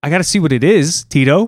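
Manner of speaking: defensive insistence. Real, not acted. Defending going outside.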